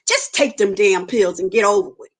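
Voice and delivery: a lightly voiced tempting devil; devil's voice. Devil urges her to take the pills, lightly voiced and coaxing. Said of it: "the devil said to me".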